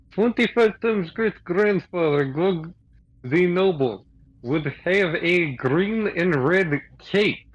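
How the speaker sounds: lightly voiced stilted warrior; earnest, literal-minded fighter; Greg in character. Player voices Greg in broken English.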